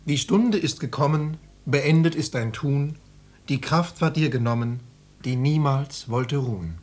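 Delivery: measured funeral-verse delivery; solemn recitation. Acted. Son reciting a verse for dead mother, solemn recitation. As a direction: recite it line by line, slowing at line ends.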